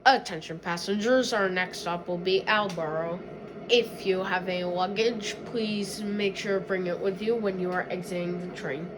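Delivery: train conductor announcement; over the intercom. Pretend. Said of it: "I'm doing our passenger".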